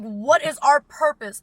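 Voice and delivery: put-on loud, high, drawn-out child's demand; mock existential outcry. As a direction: re-enact a kid urgently questioning the teacher. Acts child demanding answers from teacher.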